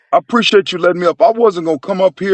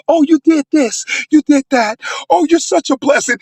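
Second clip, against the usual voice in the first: higher, sing-song sarcastic gushing; mock gushing praise, tongue in cheek; mock fawning; 5 semitones higher than usual. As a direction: parody the flatterers sweetly. Mocking fawning men.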